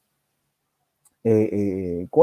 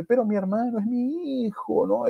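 pleading; 8 semitones higher, 7 dB quieter than usual. Acted. Sister pleads for her child.

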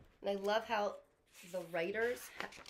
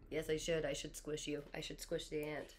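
put-on kid's answer; 6 semitones lower than usual. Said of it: "the kid's opinion is".

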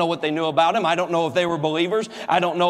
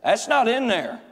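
mock God; 2 semitones higher, slower than usual. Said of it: "And God said".

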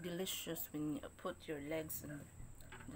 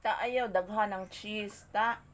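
loud scolding; 3 semitones higher, 7 dB louder than usual. Real, not acted. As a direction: call out a warning, loud. Telling companion off over cheese.

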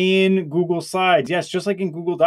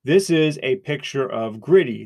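dictating; 3 semitones lower than usual. Shown as a demonstration. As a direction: speak clearly for voice typing. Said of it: "we'll click to speak".

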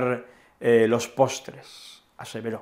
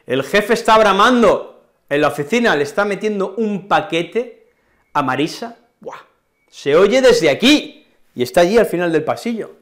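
gossiping about the boss; 5 semitones higher, 4 dB louder than usual. Shown as a demonstration. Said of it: "Si alguien brama".

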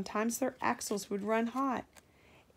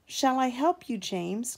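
calling out; 5 semitones higher, 6 dB louder than usual. A narrator's reading. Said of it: "called Edward".

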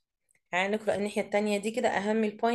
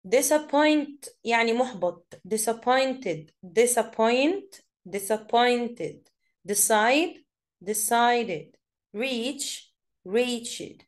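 each word stretched out very slowly; slow drill; much slower than usual. Shown as a demonstration. Teacher drilling verb forms for pupils, very slowly. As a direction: spell it out slowly for the class. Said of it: "drilling word forms".

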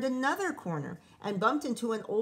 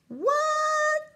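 shocked; 9 dB louder than usual. Real, not acted. Reader's shocked reaction.

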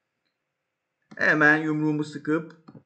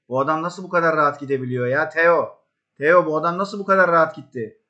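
exasperated; 3 semitones higher, 6 dB louder than usual. Real, not acted. Frustrated at defending.

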